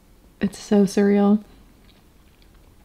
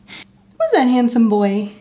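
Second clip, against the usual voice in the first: sympathetic aww; 3 semitones higher, slower than usual. Real, not acted. Cooing to kitten.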